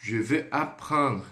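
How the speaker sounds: unhurried, deliberate; slow teacher repeat; slow model phrase. Shown as a demonstration. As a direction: stretch "je veux apprendre" out for the class. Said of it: "Então".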